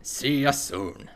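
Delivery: slow, echoing the NPC's farewell; NPC voice mimic. Streamer echoing the NPC's farewell in a mock voice. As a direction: drag out the goodbye like the NPC. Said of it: "go off in some random direction with the voice".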